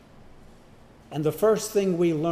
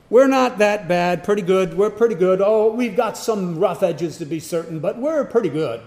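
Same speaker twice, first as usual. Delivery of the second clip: mock self-assurance; 3 semitones higher, 5 dB louder than usual. Mocking self-justification.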